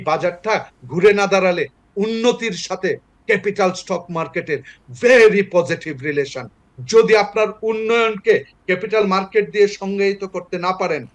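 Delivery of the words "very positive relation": slow emphasis. Real, not acted. Emphasising a key point.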